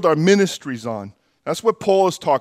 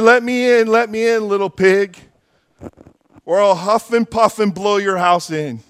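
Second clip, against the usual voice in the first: wolf voice; 4 semitones higher than usual. Acted.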